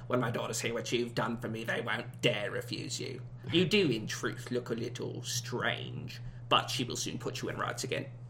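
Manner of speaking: put-on quiet, soft, low-pitched British accent. Performing a sentence from a Tales of the Brothers story, British Argus Filch impression. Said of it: "It was British, but also like an Argus Filch impression".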